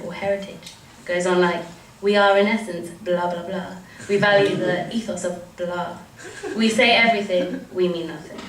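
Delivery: spoken-word reading in measured phrases; rhythmic, deliberate poetry delivery; satirical poem recitation. Acted. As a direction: read it as a poem, each line falling away. Reads satirical poem aloud.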